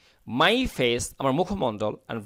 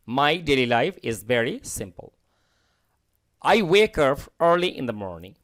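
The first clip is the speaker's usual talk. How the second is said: slow, clear model sentence; slow model reading; much slower than usual. Shown as a demonstration. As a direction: read it out slowly for learners. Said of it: "teacher reads model sentences". (ধীরে ধীরে পড়া বাক্য)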